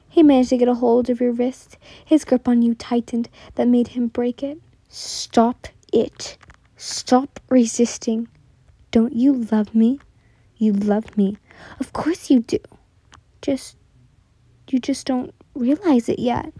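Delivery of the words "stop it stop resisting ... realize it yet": hissed. Acted. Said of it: "he hissed".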